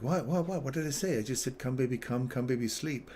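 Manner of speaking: high, loud baffled protest; mock-innocent what did I say; confused protest. Protesting to the offended lady, confused. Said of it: "I'm like".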